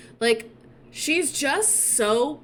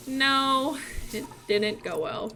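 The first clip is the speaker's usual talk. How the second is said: acted glum admission; 2 semitones higher, slower than usual. Mulan confesses to parents, mildly glum. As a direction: admit it with a sinking voice. Mulan admits it went badly.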